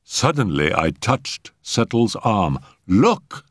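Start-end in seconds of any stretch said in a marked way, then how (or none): 2.9-3.5 sharp, higher-pitched alert; sudden exclamation. A narrator's reading. Doctor touching Settle's arm, sudden exclamation. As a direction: grab his attention at once. Doctor spots sign of life.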